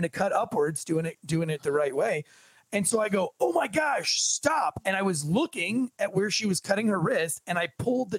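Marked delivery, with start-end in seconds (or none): 3.4-4.8 alarmed cry. Retold or imitated. Retold cry at the bathtub.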